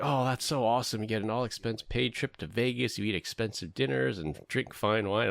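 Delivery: envious gushing about a trip; excited. Retold or imitated. Imitating friends' envy of trips.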